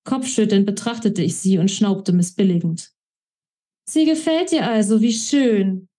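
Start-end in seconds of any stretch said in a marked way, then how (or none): 3.9-5.9 teasing. Acted. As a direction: needle him with fake delight. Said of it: "stichelte Alex".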